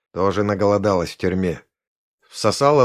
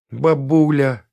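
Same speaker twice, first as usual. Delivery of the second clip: higher, tender exclamation; touched; 5 semitones higher, 4 dB louder, slower than usual. A narrator's reading. Машка recognises her granny's doing, touched. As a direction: coo it with delighted fondness. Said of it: "умилилась и Машка".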